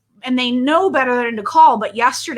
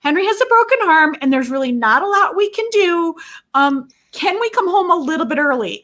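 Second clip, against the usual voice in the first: put-on pleading kids; 2 semitones higher than usual. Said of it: "They're like".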